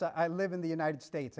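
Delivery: retold sheepish mumble, lightly done; sheepish confession. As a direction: own up reluctantly with a small stammer on "I". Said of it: "I had to sheepishly confess".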